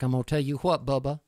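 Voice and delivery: a light hint of a Texan accent, barely shifted. To the host, a light mock Texan accent after a few beers. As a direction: slip casually into a touch of Texas. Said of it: "that's his Texan accent".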